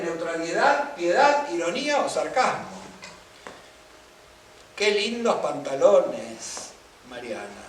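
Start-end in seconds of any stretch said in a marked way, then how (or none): 4.8-7.6 slow, drawn-out praise with weight on qué; admiring compliment. Shown as a demonstration. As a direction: compliment the trousers as if you mean it. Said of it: "yo lo puedo cargar con distinta subjetividad".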